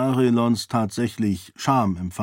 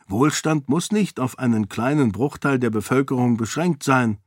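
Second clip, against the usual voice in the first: put-on raised, earnest young woman's voice, arguing her case; a princess pleading for the peasants, lightly higher; Sarene, persuasive princess; 4 semitones higher than usual. Sarene argues with the lords. (Sarene, eindringlich und höher gesprochen)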